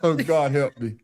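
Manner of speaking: wheezing out words between laughs; after laughing hard. Real, not acted. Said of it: "My damn side is hurting".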